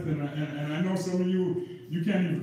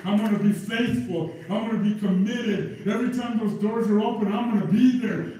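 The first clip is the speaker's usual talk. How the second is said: louder, rising vow to God; fervent vow; 4 dB louder than usual. Acted. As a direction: promise it with growing force. Preacher voicing his vow.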